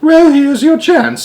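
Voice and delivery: put-on very high, loud, slow old-nanny snarl. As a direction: bite out each word, slow and threatening. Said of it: "snarled Missus Tib".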